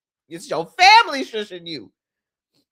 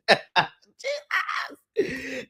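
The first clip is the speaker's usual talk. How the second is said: mock call out; 4 semitones higher, 5 dB quieter than usual. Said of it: "he's yelling out Jesus".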